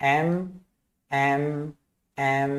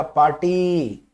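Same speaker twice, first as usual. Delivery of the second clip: put-on slow, drawn-out child's word; lightly imitated toddler demand; toddler's single word; much slower than usual. Shown as a demonstration. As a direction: stretch the last vowel like a toddler. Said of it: "तो क्या बोलेगा".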